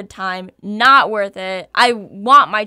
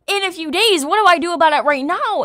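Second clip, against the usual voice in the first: incredulous; 7 semitones higher, 4 dB louder, faster than usual. Retold or imitated. Disbelief at nurse's answer.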